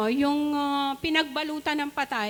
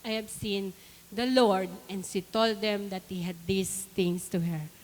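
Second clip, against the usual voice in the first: scripture reading; 3 semitones lower than usual. Acted. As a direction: read the Bible passage aloud, phrase by phrase. Reads scripture aloud to congregation. (mabagal na pagbasa ng Bibliya)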